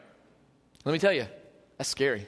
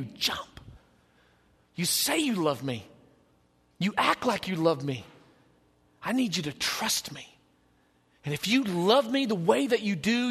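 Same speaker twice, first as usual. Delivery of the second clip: pleading God. Acted. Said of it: "He is begging you".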